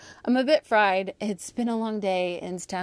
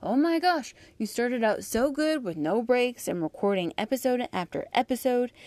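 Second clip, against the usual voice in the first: exasperated listener; 5 semitones higher than usual. Retold or imitated. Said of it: "Now, you're thinking".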